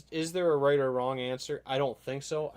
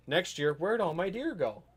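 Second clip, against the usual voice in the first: higher-pitched mock bewilderment; puzzled complaint; 6 semitones higher than usual. Imagined over-hunter wondering where the deer went, mock puzzled. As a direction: act out a hunter's baffled complaint.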